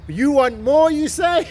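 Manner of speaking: mock infomercial host teasing the viewers; TV salesman. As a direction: sell it like a late-night TV ad. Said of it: "I feel like one of those T V salesmen".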